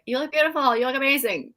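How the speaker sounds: lightly hammed-up admiring family; gushing praise. Family cooing over a child's fashion show, mock gush. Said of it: "everybody in the room would be like".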